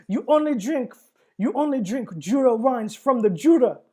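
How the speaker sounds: hammed-up angry Frenchman, French accent; clumsy French accent, laughing through it; bad French accent. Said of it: "that was really bad French accent".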